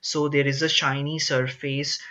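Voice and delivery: normal talking voice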